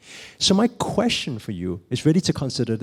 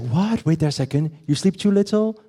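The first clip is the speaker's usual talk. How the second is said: higher, incredulous questioning; mock disbelief; 5 semitones higher than usual. Friend reacting to someone who overslept, mock incredulous. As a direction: play a friend who can't believe it.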